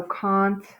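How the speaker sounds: "continent" split as cont, uh, nent; broken-up "continent" with a schwa; syllable by syllable. Shown as a demonstration. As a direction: sound out "continent" with long gaps. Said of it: "naturally it's continent".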